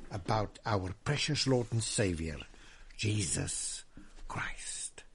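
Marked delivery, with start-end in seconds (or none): 3.0-5.0 much softer, fading to a whisper; reverent whisper. Acted. Preacher to his congregation, whispering the holy name. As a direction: breathe the name in awe.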